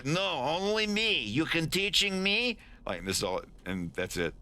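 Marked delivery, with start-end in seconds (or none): 0.0-2.6 higher, foreign broken-English voice; eager, emphatic demand; insistent. Acted. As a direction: insist it is for you alone. Acting insistent character in broken English.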